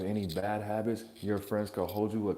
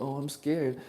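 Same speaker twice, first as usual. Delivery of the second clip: mock scared kid; 4 semitones higher than usual. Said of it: "stop acting like little fucking kids".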